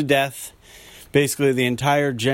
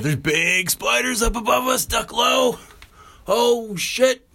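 scared; 11 semitones higher, slower than usual. Real, not acted. Spiders above them in cave.

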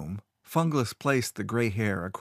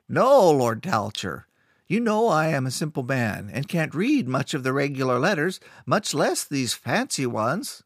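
humble man, slightly raised voice; timid caretaker; 5 semitones higher, 3 dB louder than usual. Acted. Caretaker answers the lord.

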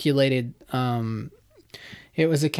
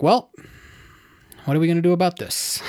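composed, quick retold question; Mike calming down; 2 semitones higher, faster than usual. Imitating Mike after his outburst, calmed down. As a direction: settle into matter-of-fact problem solving. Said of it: "like, calm down".

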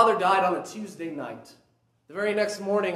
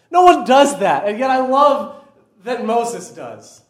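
emphatic; 11 dB louder than usual. Real, not acted. Preacher presses his point.

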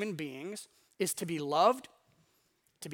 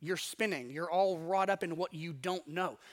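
a hint of a gentle teacher calming them; calm reassuring Jesus. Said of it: "And he's like".

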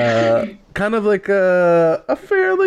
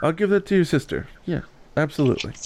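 elf voice; 3 semitones higher than usual. Acted. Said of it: "you hear the elf say".

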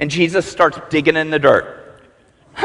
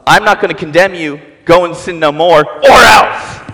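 threatening Jesus. Retold or imitated. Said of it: "Jesus doesn't say".

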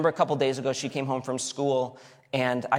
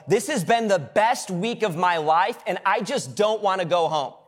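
tearful student; 5 semitones higher, 4 dB louder than usual. Retold or imitated. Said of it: "They're like".

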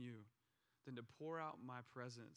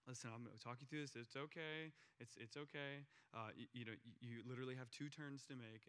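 calm; 2 semitones lower than usual. Retold or imitated. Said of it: "The whole time I'm being calm".

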